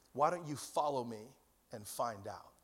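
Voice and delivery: low, soft voice of Jesus inviting; quiet invitation. Acted.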